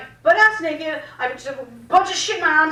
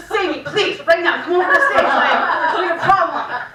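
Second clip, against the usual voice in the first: urgent plea. Retold or imitated. Begging the DJ for rescue.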